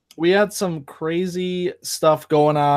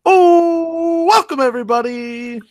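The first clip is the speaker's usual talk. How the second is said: big intro voice; 10 semitones higher, 4 dB louder than usual. Pretend. Mock grand podcast intro.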